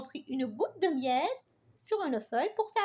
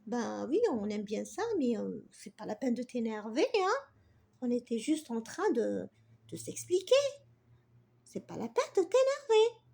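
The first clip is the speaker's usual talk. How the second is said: hesitant; 4 semitones lower than usual. Acted. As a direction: backpedal nervously to calm the bee. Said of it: "Sarah, tout hésitante". (fillette hésitante, voix plus basse et douce)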